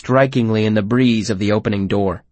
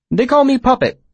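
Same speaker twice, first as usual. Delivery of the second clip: eccentric voice; 13 semitones higher than usual. Acted. Puppet's voice.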